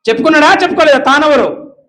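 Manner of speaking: forceful rhetorical question; loud challenge. Real, not acted. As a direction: call it out to the congregation. Preacher challenging the congregation.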